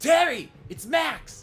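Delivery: put-on raspy voice. Voicing Max, calling out to Terry, in a raspy Max voice. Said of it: "Is that raspy enough for you?".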